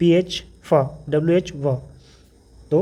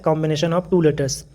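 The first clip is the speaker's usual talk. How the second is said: slow dictation; much slower than usual. Shown as a demonstration. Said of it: "teacher reads definition aloud".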